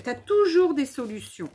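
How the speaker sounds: loud, cheerful call-out; overexcited loud exclamation; shouting. Real, not acted. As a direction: project it a bit too loud across the craft table. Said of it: "Arrête de crier".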